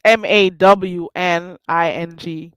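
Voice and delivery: MAWNING, said with no R sound; dropped R. Shown as a demonstration. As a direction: say MAWNING, drop the R. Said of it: "without the R".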